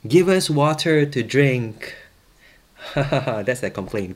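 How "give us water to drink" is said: loud, slow, higher-pitched demand; quarrelsome demand. Acted. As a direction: read it out as a complaint, slowly and loudly. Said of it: "quarreled with Moses and said".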